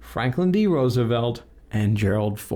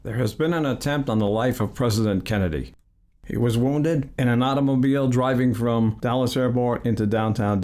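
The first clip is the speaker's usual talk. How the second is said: generic announcer voice. Acted. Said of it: "I'll just use my generic announcer voice".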